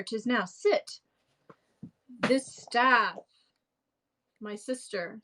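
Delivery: Shakespeare read aloud with relish; theatrical Shakespeare reading. Acted. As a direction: play the clown, a man showing his family with shoes. Reads Launce's shoe monologue.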